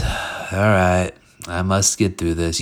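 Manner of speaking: lackluster, MUST left unstressed; half-hearted affirmation. Shown as a demonstration. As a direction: say it with no passion behind it. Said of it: "You can't say it like that".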